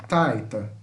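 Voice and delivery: "Taita" demonstrated with a strong, falling "Tai"; stress on TAI. Shown as a demonstration. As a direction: hit the first syllable of "Taita", let the second fall away. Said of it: "Você dá uma ênfase no tai".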